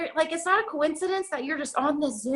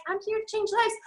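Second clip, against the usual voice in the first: corny slogan; 7 semitones higher than usual. Retold or imitated. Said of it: "a corny saying like".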